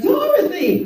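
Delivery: high, long call of Dorothy!; mock aunt calling Dorothy. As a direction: call her name across the farm.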